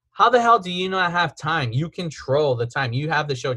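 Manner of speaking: mildly exasperated, only a touch of heat; retold exasperation. Host retelling his anger at the co-host who skipped the plug, mildly exasperated. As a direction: vent it, but keep it understated. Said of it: "it made me mad 'cause I was like".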